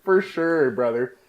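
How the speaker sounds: lightly played Canadian accent. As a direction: agree like a Canadian local. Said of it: "That's the Canadian boy".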